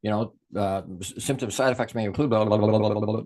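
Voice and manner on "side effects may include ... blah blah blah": mock legalese. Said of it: "the legalese at the end".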